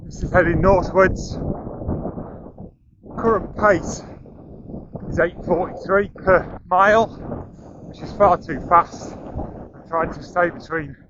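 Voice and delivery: talking mid-run, short breaths; speaking while jogging along; while running. Real, not acted. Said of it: "We're running up the coast".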